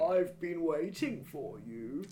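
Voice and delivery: put-on slow, thin old man voice; creaky old man, drawn out; very old faint voice. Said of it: "voice of a very old man".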